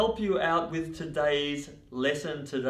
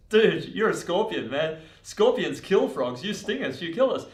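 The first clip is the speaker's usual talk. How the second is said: higher, louder protest; alarmed refusal; 5 semitones higher, 6 dB louder than usual. Acted. Frog refusing a scorpion who could sting him, loud incredulous protest. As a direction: object strongly, pitch pushed up.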